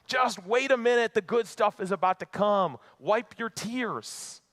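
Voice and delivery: imagined upbeat reassurance. Pretend. Imagined Jesus to mourners before the miracle, upbeat reassurance. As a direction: pretend to brush off the grief, high and insistent.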